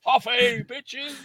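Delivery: high-pitched whoop of coffee-fuelled triumph; hammed-up caffeinated yell; mock manic cry. Acting out coffee-fuelled run in woods.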